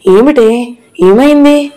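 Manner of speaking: shocked mother pressing for an answer; alarmed. A narrator's reading. Mother sees her daughter covered in blood, alarmed.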